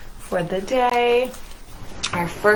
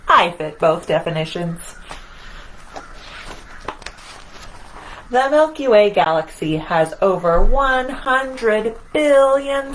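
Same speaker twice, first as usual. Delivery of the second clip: lively picture-book read-aloud as the boastful sun; reading to children. A narrator's reading. Reader voicing the proud sun for children, playful storytelling. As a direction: read it to the kids, playing up the sun's swagger.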